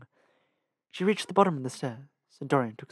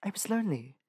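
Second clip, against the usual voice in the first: pitiful pout; 5 semitones higher, 3 dB quieter than usual. Acted. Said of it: "a pitiful pout".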